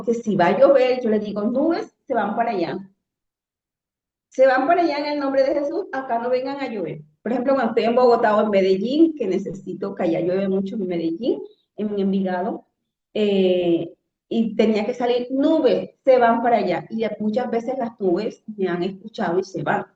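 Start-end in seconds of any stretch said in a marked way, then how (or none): 1.4-7.0 commanding the clouds. Retold or imitated. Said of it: "le hablé a la naturaleza". 15.3-16.9 commanding the clouds. Retold or imitated. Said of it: "hablándole a la naturaleza".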